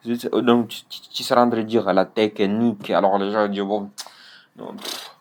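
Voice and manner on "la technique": "technique" with an extra vowel, "té-ke-nique"; bad pronunciation. Shown as a demonstration. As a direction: pull k and n apart in "technique". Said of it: "elle fait mal au ventre". (« technique » mal dit, « té-que-nique »)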